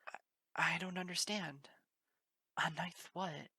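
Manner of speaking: high, loud flustered stammer; tripping over the words, lost; stammering confusion. Acted. Pony startled by the yelling unicorn, high stammering confusion. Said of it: "a stammering face".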